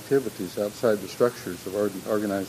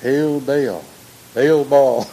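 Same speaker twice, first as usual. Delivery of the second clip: mock solemn chant, louder; secret cult greeting; 3 semitones higher, 8 dB louder, much slower than usual. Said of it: "secret call ... we'd say".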